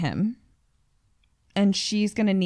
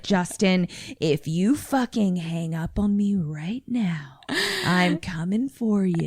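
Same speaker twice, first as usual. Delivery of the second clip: menacing whisper; 3 semitones lower, 5 dB quieter, slower than usual. Pretend. Threatening the operator.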